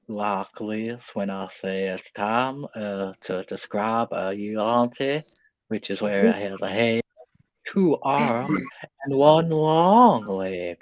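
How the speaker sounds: slow relaxed-jaw Southern drawl. Shown as a demonstration. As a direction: loosen the jaw and drawl it out slowly. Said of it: "relax your jaw a little more to, to get that drawl".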